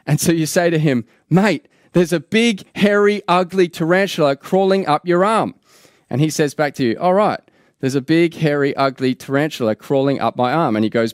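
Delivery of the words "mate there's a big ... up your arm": higher-pitched alert to a friend; mildly alarmed heads-up, pitched up; urgent warning. Acted. Warning a friend reading the newspaper about a tarantula, urgent.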